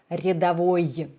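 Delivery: "рядовой" ending in a crisp, audible y; sharper final y. Shown as a demonstration. Teacher showing what he should have done, sharp y ending. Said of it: "make it sharper".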